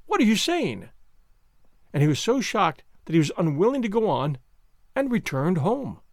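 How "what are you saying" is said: higher, incredulous question; amazed. A narrator's reading. Shocked man to his calm companion, amazed. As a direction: ask it in astonishment. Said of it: "amazed at my calm".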